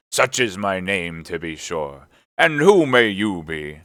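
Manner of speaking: slow, lightly voiced sailor landlord; hearty old seaman. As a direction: take your time, ending loud on the question.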